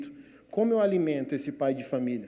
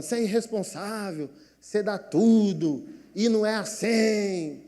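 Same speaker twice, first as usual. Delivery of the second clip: angry wife; 4 semitones higher than usual. Acted. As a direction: scold like a fed-up wife, stretching each charge. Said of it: "minha mulher é brava".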